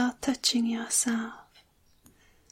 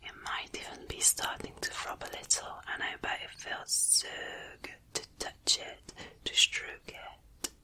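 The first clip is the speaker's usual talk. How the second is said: very soft, close-up whisper; playful teasing whisper; 10 dB quieter than usual. Pretend. Leaning in to tease the listener, playful intimate whisper. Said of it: "more playful, leaning in close and teasing you".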